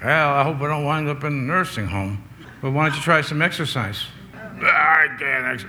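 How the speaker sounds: put-on lightly caricatured old person; mock old-timer's complaint; old people talking. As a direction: imitate elderly grumbling. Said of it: "Old people talk like that".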